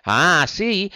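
Pinocchio, blinded by anger, shouts; angry shout. A narrator's reading. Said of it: "gridò Pinocchio". (grido rabbioso)

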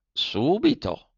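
the snail says "Subito" slowly. A narrator's reading. (lumaca lenta)

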